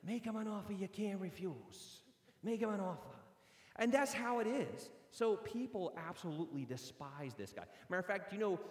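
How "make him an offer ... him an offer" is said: a hint of the Godfather making threats; mild mock mobster quoting the film; godfather impression. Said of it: "He's like the godfather".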